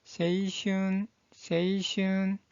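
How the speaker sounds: 세이슌 slow and evenly drawn out; pronunciation demo. Shown as a demonstration. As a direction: model 세이슌 slowly for learners. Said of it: "이 한자의 발음은".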